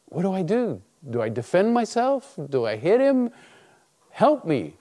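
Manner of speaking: high, acted-out anxious questions; panicked plea. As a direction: plead for help in a mock panic. Acted frantic prayer before being hit.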